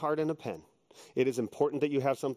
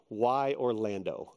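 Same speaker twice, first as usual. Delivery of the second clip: slow questioning; 5 semitones lower, much slower than usual. Retold or imitated. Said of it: "I just wrote down the question".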